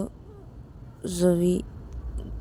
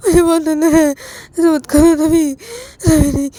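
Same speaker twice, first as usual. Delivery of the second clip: 1 scared pleading; 3 semitones higher, 4 dB louder than usual. Acted. Pleading at gunpoint.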